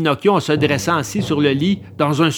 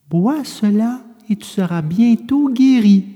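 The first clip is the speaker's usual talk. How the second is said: kind, higher, a bit louder; gentle fairy voice; 6 semitones higher, 3 dB louder than usual. A narrator's reading. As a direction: soothe the sick puppet gently. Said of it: "en lui disant gentiment". (voix douce de fée)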